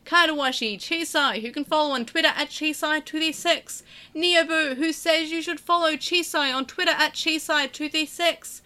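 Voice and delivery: lightly hammed-up sales pitch; salesman voice. Host reading the thanks, slipping into a salesman manner. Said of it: "I don't know why I'm talking like this".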